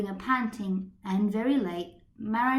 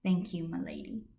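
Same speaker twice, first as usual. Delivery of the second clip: grateful; 4 semitones lower, 6 dB quieter than usual. Acted. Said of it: "smiled gratefully".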